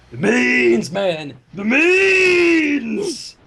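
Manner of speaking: loud, high joking cry; hammed-up yell about the mains; mock shout. Reader joking over a misread word, mock shouting.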